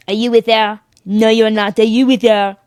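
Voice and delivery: light mock-French accent. French customs officer talks past traveler, lightly mocked French accent. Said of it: "Your French accent".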